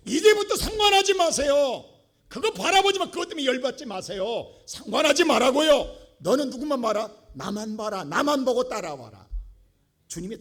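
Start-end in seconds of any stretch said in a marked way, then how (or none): 0.1-9.3 preaching at full force. Acted. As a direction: hammer the point home to the congregation.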